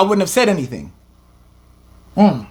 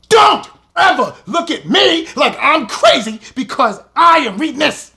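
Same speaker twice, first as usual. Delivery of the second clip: laugh-cry; 5 semitones higher than usual. Real, not acted. Laughing while crying.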